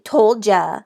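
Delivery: smug told-you-so; taunting. A narrator's reading. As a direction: rub it in. Mean Jim taunting.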